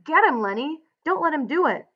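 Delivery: high, urgent narrated yell. A narrator's reading. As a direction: yell a command across the room.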